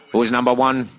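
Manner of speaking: TV intro impression. Mimics the TV show intro.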